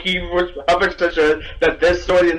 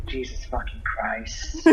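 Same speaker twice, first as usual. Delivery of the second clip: weary sigh; 6 semitones lower, 10 dB quieter, slower than usual. Acted. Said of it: "just sigh and go".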